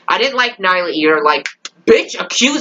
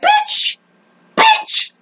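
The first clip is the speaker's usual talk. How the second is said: very high squeaked outrage; incredulous squeal. Acted. Fan answering Jackson's arrest order, squealed outrage. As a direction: shoot up into a squeal of disbelief.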